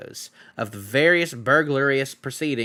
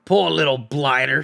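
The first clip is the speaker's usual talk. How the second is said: pitying troll; 3 dB louder than usual. Acted. William pities hobbit.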